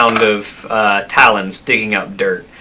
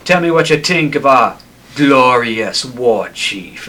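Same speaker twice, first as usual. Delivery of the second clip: dripping sarcasm on glorious war chief; sarcastic; 3 semitones higher than usual. Acted. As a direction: sneer the praise, mean the opposite. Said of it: "you can taste the sarcasm".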